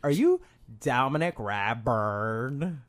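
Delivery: very slow, drawn-out question; put-on starstruck fan. Acting a fan asking the podcaster's name, slow mock wonder.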